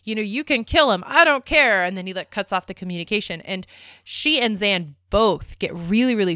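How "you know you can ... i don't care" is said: mock defiant outburst, building louder and higher at the end; retold crazed outburst. Retelling Stark bluffing on the call, mildly crazed defiance. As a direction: imitate someone going crazy, only partly acted. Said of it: "goes crazy and pulls off his mask".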